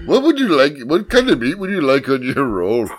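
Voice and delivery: lilting fake Malaysian clerk accent; badly put-on Malaysian accent; mock Malaysian accent. Clerk taking a meat order, mock Malaysian accent. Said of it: "Uh, Malaysian".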